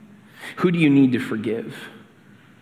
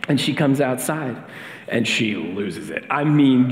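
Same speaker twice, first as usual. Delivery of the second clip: ordinary talk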